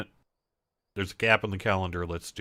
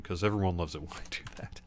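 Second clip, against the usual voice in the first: whispered sarcastic aside; 3 semitones lower, 6 dB quieter, faster than usual. Real, not acted. Sarcastic aside about buying rogue.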